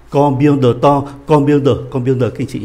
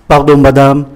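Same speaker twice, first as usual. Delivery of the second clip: loud, measured French model reading; slow reading; 9 dB louder than usual. Shown as a demonstration. Teacher models the dialogue for students, slow reading. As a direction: read it out slowly and clearly for learners. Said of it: "Tôi đọc chậm nhé".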